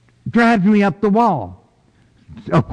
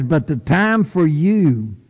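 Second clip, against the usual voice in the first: voice of God. Acted. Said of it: "And God says".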